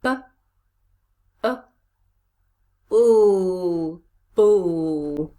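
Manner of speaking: b, a, oo said apart, then blended as boo; sounding out. Shown as a demonstration. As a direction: stretch oo and boo long after short b and a. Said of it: "Fourth syllable".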